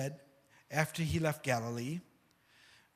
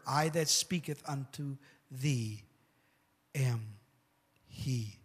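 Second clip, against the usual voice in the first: solemn Jesus voice; 3 semitones lower, 3 dB quieter, slower than usual. Acted. Jesus reveals himself, voiced.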